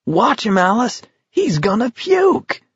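high, gleeful spectator, stretching the last words; ecstatic cry. A narrator's reading. Spectator calls to Alice, crying out in delight. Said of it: "cried in an ecstasy of delight".

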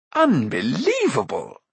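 slow, drawn-out wonder; marveling. A narrator's reading. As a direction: savour the word. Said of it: "said Rune".

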